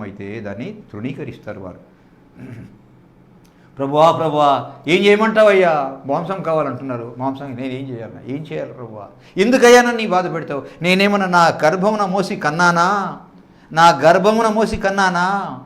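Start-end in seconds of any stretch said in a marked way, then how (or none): 3.8-15.6 a touch of bitter reproach; Moses complaining. Acted. Moses reproaching God about the people, raised complaining voice. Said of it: "అని నిష్ఠూరపడతాడు".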